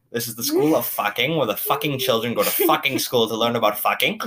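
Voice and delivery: quoting in a lightly put-on German accent; a hint of clumsy, mock German accent; shoddy German accent. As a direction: slip into a bad German accent for the quote. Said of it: "defaulting to, like, some weird shitty German accent".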